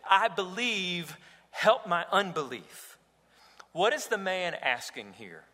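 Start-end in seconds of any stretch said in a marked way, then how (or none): 0.1-3.0 mild cry out. Acted. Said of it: "cried out and said".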